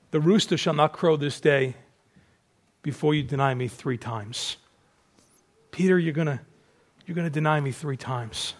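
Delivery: low, softening, grave warning; sorrowful foretelling. Acted. Jesus sadly warns Peter of his denial, sorrowful. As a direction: let each phrase fall quietly, with pauses. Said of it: "he's kinda shaking his head here".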